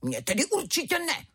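a cub's pretend roar; little tiger lightly roaring back; mock roar. A narrator's reading. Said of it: "zařval malý tygr".

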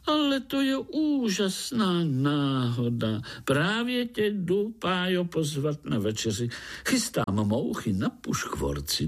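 a lightly voiced chatterbox tree frog inviting Pája to dinner; chattering tree frog. A narrator's reading. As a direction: babble on excitedly like a chatty frog. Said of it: "brebentila pražská rosnička".

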